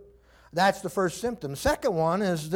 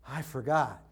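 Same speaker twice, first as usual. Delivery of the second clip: low, soft mock excuse; forgetful teenager; 9 semitones lower, 7 dB quieter than usual. Teenager questioned about undone chores, low feeble excuse. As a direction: drop right down into a dopey excuse. Same excuse voiced again.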